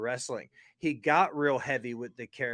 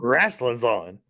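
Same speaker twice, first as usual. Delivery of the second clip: excited announcement; 3 semitones lower, 8 dB louder, slower than usual. Retold or imitated. Joins the bit.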